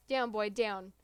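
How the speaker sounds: firm loud command to a dog; shouted command. Acted. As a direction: bark the order at the dog. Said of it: "command shouted by Colonel Sanders".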